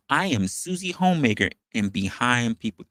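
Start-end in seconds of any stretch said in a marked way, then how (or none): 0.1-1.5 mock Susie Homemaker. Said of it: "Are we saying".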